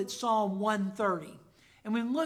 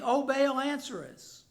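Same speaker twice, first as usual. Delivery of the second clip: mock cry to Baal; 3 semitones higher, 4 dB louder than usual.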